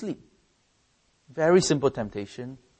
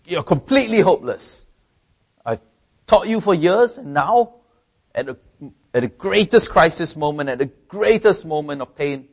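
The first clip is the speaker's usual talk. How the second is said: louder, higher scolding of the disciples; 4 semitones higher, 4 dB louder than usual. Pretend. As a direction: scold them as hopeless. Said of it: "could have scolded them".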